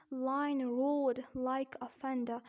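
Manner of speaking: slow British "roared" with no R before the D; non-rhotic British demo, slow; British accent. Shown as a demonstration. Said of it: "Here in British accent".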